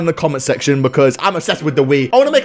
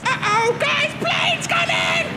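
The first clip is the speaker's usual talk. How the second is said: alarmed shout; 5 dB quieter, slower than usual. Real, not acted. Warning about incoming plane.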